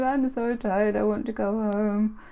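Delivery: imitated tired child's whine; crying little boy. Tired boy to grandma in post office, mock crying. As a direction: whine like a worn-out small boy. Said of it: "he was just crying".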